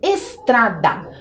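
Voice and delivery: drawn out syllable by syllable, slow; slow, clear word for kids; slow spelling read. Shown as a demonstration. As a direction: read it out slowly for the children to find. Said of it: "A professora colocou lá".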